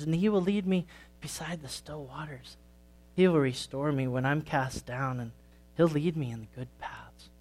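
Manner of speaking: put-on gentle storytelling for kids at church; story read to children. A narrator's reading. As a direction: tell it like a children's sermon story. Reads a children's story aloud.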